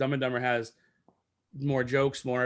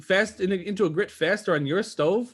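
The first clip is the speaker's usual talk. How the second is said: movie quote, higher and louder; 7 semitones higher, 3 dB louder than usual. Retold or imitated. Quoting the movie's grits scene.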